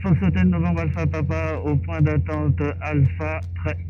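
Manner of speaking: crisp pilot radio phraseology; radio call. Shown as a demonstration. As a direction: read the callsign out like on the radio. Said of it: "tu dis".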